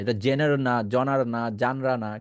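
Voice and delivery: জেনার, জনার, জানরা as mistaken readings, "je-nar, jo-nar, jan-ra"; wrong genre variants. Shown as a demonstration. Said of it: "যাতে করে ভুল না হয়". (জেনার, জনার, জানরা ভুল উচ্চারণে)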